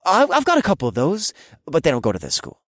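put-on high sloppy drunk voice; fake drunk. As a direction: slur like a tipsy student. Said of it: "feigned drunkenness".

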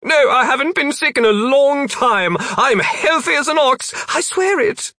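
high, loud desperate protest; panicked captive. A narrator's reading. Captive swearing to demons he's healthy, panicked.

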